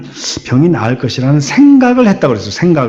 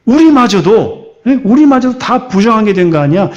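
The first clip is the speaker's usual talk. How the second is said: higher-pitched, accusing questions; indignant scolding; 5 semitones higher than usual. Acted. Preacher voices bystanders blaming the unclean woman, indignant scolding. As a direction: act out an outraged telling-off. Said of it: "혼내려고 하지 않았을까?".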